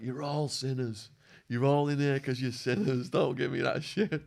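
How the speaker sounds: mild mock call-out; Wild Man. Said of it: "calling them all out".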